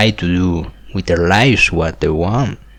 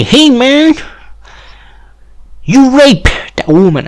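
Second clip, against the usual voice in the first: lightly mimicked officer, much higher pitch; high-pitched mock confrontation; police accusation; 14 semitones higher than usual. Police accuse him in the street, lightly mimicked accusation.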